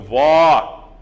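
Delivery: vó punched out; loud stressed vó. Shown as a demonstration. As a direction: hit the open vó. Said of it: "tônico".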